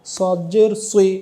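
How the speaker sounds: সুই with lips rounded into a clear u, slow; slow rounded সুই, lips pushed forward. Shown as a demonstration. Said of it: "এই চারটার সময় মুখটা sound গোল হয়ে যাবে".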